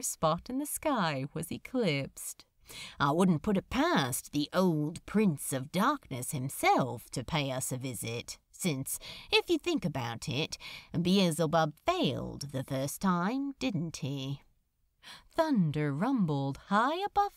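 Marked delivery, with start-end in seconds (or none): 3.0-14.4 a lightly voiced sardonic demon; wry demon. Demon musing to the angel about Hell, lightly voiced sardonic. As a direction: toss it off, dry and lightly lowered.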